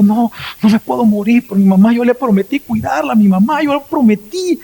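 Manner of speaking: preacher reenacting a wounded man's tearful promise; mock tearful plea. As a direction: voice climbing as if near tears, imitated. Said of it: "iba llorando y diciendo".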